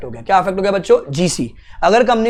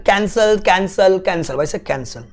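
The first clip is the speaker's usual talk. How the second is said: Popat Lal impression. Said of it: "जैसे पोपट लाल कहते हैं".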